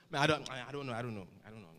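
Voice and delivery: lazy swag mimic. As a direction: play it cool and proud of not knowing. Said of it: "they make it seem so cool".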